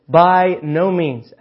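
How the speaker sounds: very slow and drawn out; repeating Peter's defiant no; stubborn refusal. Retold or imitated. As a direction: drag each word to show defiance. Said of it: "When he said".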